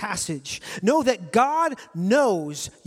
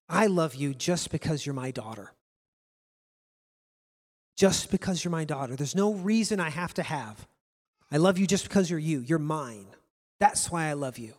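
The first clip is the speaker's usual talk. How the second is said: low, softer fatherly tenderness; tender father; 6 semitones lower, 4 dB quieter than usual. Retold or imitated. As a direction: speak lovingly to your daughter, low and soft. Tender words to his daughter retold.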